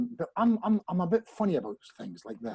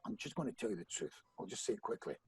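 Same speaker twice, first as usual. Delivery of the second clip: much softer, half-whispered admission; sheepish quiet confession; 5 semitones lower, 10 dB quieter than usual. Retold or imitated. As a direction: mumble the bad news to a friend. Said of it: "So I said".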